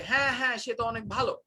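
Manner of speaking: quick, mocking "হ্যাঁ, হ্যাঁ" with fake approval on "ভালো"; sarcastic praise. Shown as a demonstration. Teacher showing students how sarcasm sounds, mock-sincere praise. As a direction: say it like you mean the opposite, rattled off fast. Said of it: "then I'm having the intonation".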